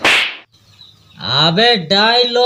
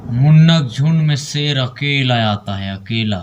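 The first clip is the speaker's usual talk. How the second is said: filmi dialogue; 4 semitones lower than usual. Shown as a demonstration. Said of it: "dialogue to copy".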